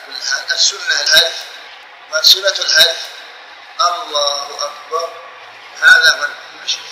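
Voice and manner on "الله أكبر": slow, softer, moderately drawn-out "الله أكبر"; stretched takbir. Shown as a demonstration. Teacher showing the well-known form, takbir slowly stretched. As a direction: lengthen the vowels of "الله" and pause into "أكبر". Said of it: "من تمطيط وتمديد".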